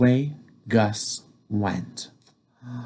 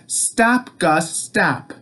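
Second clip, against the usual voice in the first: demo call; 3 semitones higher, slower than usual. Shown as a demonstration.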